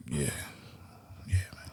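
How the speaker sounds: soft whispered agreement; whispering. Real, not acted. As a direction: breathe it out quietly. Hushed agreement.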